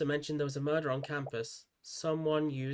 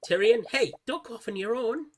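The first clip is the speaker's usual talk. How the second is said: calling out; 8 semitones higher, 3 dB louder than usual. Acted. Calling after a fleeing friend.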